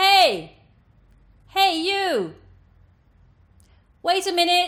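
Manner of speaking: very loud, very high calling out. Demonstrating for learners, calling to an imaginary person far away: calling across a room. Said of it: "Once you're able to access this tone".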